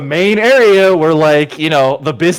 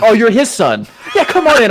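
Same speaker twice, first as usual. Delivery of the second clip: sudden friendliness; 5 semitones higher than usual. Retold or imitated. Bartender suddenly friendly, retold.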